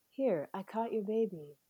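lightly voiced laid-back stoner; a hint of a mellow stoner; stoner Jesus. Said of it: "Jesus sounds like a stoner".

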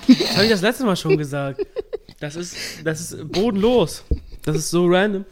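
indignant. Real, not acted. Indignant outburst about bingo point.

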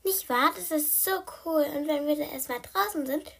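high, eager kitten chatter; excited little cat; chattering cat Blackie. Acted.

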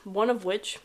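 talking while chewing a pretzel; words around a bite of food; mouth full. Real, not acted. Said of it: "sorry, I'm eating a pretzel".

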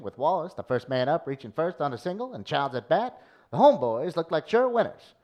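lightly voiced old newspaper reporter; old-timey voice. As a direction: read like a vintage sportswriter. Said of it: "Old-timey voice".

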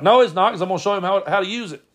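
high, emphatic contradiction in a put-on voice; Brad impression. Brad overrules the worried family, insistent impression. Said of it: "And Brad's like".

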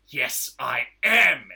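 slow, loud, mock-tearful declaration; mock emotional. Hero with gun to brother's head, mock emotional. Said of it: "meant to be all emotional".

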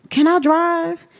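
retold request. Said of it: "Then I got angry".

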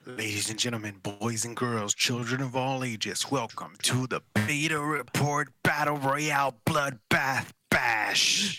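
booming ring announcer; ringmaster. Pretend. Announcer intro for Halloween battle.

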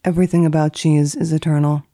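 dry formal reading of entries; deadpan list reading, each entry set apart; index read. Acted. Etiquette columnist reading old index entries, deadpan.

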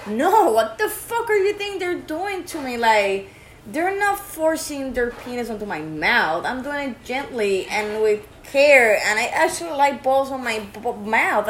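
indignant friend. Retold or imitated. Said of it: "she's like".

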